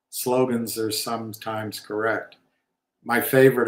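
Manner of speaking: usual speaking voice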